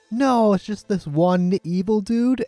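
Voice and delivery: ordinary talk, nothing marked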